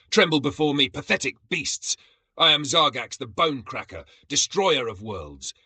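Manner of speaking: loud, high, booming proclamation; booming warlord. A narrator's reading. Zargax booming at the fleeing monkeys, loud and high. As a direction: boom it out like a conquering warlord. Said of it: "His voice boomed through the jungle".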